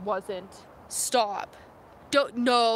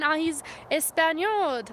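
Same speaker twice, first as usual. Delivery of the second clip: put-on Spanish word in a French accent; 3 semitones higher, slower than usual. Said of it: "I'm still in French accent".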